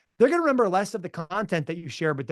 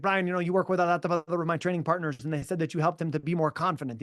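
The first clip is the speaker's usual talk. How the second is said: put-on George Saint Pierre accent. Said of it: "I'll do my George Saint Pierre accent".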